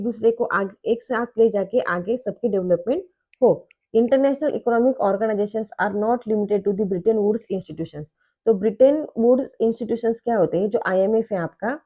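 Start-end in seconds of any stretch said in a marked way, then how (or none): 4.0-8.1 reads the definition out very slowly, word by word; slow textbook reading. Shown as a demonstration. Teacher reading a textbook definition to students, slow dictation. Reads book line aloud.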